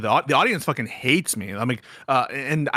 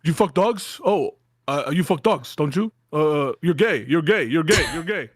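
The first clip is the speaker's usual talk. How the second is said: 1 Matan impression. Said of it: "that's my Matan impression".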